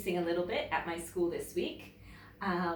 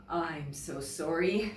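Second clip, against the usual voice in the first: apologetic polar bear; 3 semitones lower than usual. Acted. Polar bear declining Bear's cave, apologetic. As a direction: regretfully decline. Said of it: "he said".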